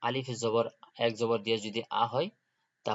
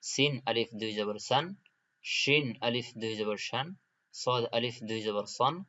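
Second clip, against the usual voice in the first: each letter spelled with a rise, then the tanween syllable; teacher recitation drill. Shown as a demonstration. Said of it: "এই চারটার উচ্চারণ একসাথে পড়ব".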